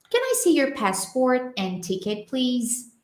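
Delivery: linked connected speech. Shown as a demonstration. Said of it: "não se espante se o cara falar".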